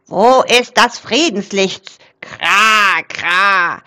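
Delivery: loud croaking raven, excited; excited crow voice with rasping caws; agitated raven croak. A narrator's reading. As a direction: caw it out like an upset raven. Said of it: "krächzte Rabe Krax aufgeregt".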